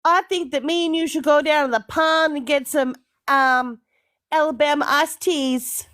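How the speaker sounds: playful put-on American Southern accent; Australian having a go at Southern US. Australian inviting friend for drinks, Southern US accent. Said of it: "feeling a little bit southern today".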